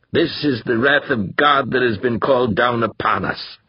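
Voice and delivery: a touch of pulpit thunder, lightly voiced; thundering preacher. The Reverend warns his flock, mild preaching thunder. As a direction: preach the wrath of God to the flock. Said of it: "thundered the Reverend Harold Carnaby".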